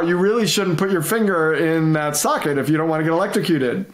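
mock know-it-all sarcasm, lightly voiced; smug, condescending state-the-obvious tone; sarcastic critic. Parent mocks a critic stating the obvious, sarcastic. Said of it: "stating the obvious is a typical critic move".

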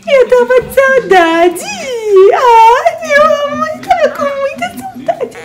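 tearful, rising pitch, missing him; emotional, near tears. Real, not acted. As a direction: voice breaking high with longing. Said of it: "eu tô ficando até emocionada de saudade". (emocionada, com a voz embargada de saudade)

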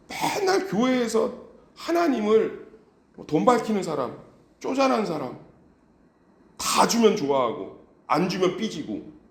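high, loud, impassioned sermon voice; fervent preaching. Acted. Pastor rebuking the church for belittling God, impassioned. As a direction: preach it hard to the congregation.

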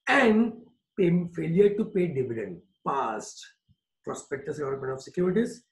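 each word spaced out slowly for note-taking; slow dictation. Shown as a demonstration. Teacher to class, dictating a definition slowly.

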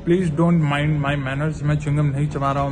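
talking around a lozenge; sucking a throat lozenge. Real, not acted. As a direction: lozenge in the mouth. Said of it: "मैं vitamin C की गोली चूस रहा हूँ".

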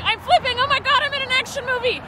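quoting herself. Retold or imitated. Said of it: "and I was like".

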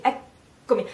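eccomi with a held double C. Shown as a demonstration. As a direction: pause on the C before the second. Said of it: "the consonant that is double".

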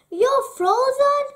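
very high, loud outburst; shocked exclamation. A narrator's reading. Lapp woman meets frozen Gerda, shocked exclamation.

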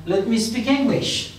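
slow, stretched-out model sentence; teacher's slow drill; slow model phrase. Shown as a demonstration. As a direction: say it slowly for learners to copy. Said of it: "slow teaching model".

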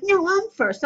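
put-on high, playful child protest; child insisting. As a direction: insist like a small kid. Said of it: "And they're like".

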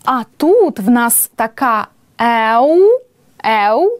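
ordinary talk, nothing marked

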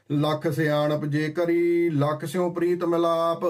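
slow, drawn-out reciting of ਲੱਖ ਸਿਆਣਪ ਜੇ ਕਰੀ; slow verse recitation. Acted. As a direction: lay the verse out word by word, slowly. (ਹੌਲੀ ਹੌਲੀ ਪਾਠ ਵਾਂਗ)

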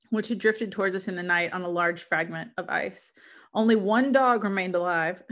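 measured, literary read-aloud; story narration. Acted. Reader sharing Frankenstein with listeners, story narration. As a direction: read it as an explorer's letter, evenly phrased.

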